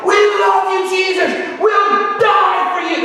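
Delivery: high, loud worship shouts; ecstatic screaming. Retold or imitated. Young worshippers dancing down the aisle, ecstatic high shouting. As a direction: scream your love for Jesus as you dance past. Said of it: "They're just screaming out".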